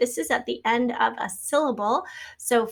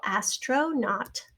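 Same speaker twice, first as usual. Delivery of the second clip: "astronaut" slowly, part by part; broken into syllables; 4 dB quieter, much slower than usual. Shown as a demonstration. Teacher showing the final syllable, "astronaut" said slowly in parts. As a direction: stretch "astronaut" so the last syllable stands out. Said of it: "here in the final syllable".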